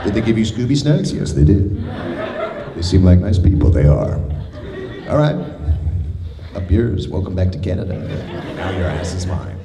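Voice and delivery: customs officer dialogue. Retold or imitated. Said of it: "They're just like".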